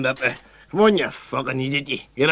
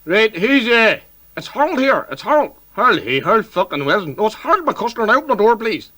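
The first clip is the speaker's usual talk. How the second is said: calling through the door; 8 semitones higher than usual. Acted. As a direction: shout it through the front door.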